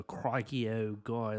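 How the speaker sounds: hammed-up Aussie crikey accent; bad Australian accent. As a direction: put on a clumsy Australian twang. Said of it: "that was a terrible accent".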